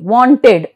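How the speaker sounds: "Wanted" in two syllables, full "ted" ending; pronounced E. Shown as a demonstration. Teacher shows E after T, "Wanted" with full E. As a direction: sound the E clearly in "Wanted", as won-ted. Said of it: "but here it is pronounced".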